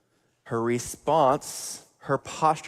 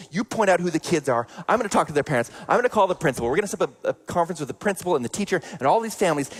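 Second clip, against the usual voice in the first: louder, higher, rushing furious father; rampaging dad; 5 semitones higher, 3 dB louder, faster than usual. Retold or imitated. Father raging to his bullied son, loud and fast. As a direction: storm in ready to fix everything.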